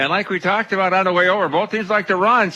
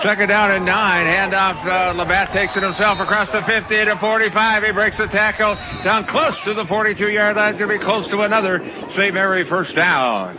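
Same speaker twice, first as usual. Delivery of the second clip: raised, lively football play call; 4 semitones higher than usual. Real, not acted. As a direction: call the run as it unfolds, pitched up. Live call of a run.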